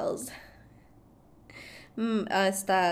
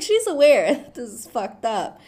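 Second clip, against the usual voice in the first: real amused laughter; 3 semitones higher, 8 dB louder than usual. Real, not acted. Laughs at her own retelling.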